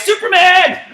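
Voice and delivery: high, loud shout; called-out command. Real, not acted. Coach calling the Hulk command: big excited shout. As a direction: bark it out to the class.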